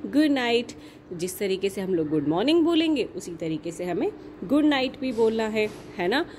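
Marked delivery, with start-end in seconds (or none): 0.1-0.7 sweet good night. Shown as a demonstration. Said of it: "हमें कहना है".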